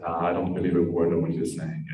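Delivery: low, dismissive doubter; disbelieving. Acted. Friend at the bottom answers the climber, disbelieving.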